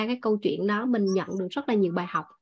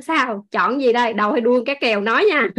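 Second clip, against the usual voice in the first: playful teasing. Retold or imitated. Trâm jokes with someone who knows the fish story, playfully teasing. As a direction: tease them into picking one. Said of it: "hay hỏi đùa đùa vậy".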